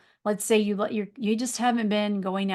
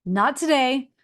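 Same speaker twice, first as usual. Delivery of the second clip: defiant refusal; 4 semitones higher, 4 dB louder, slower than usual. Retold or imitated. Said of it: "And you say".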